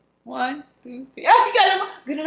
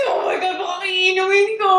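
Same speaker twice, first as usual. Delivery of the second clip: panicked exclaim; 4 semitones higher than usual. Real, not acted. Panicking over sketchy wine.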